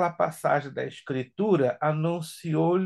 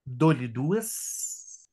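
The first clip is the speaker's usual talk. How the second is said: auctioneer; 2 semitones lower, much slower than usual. Pretend. Teacher counts down like auction.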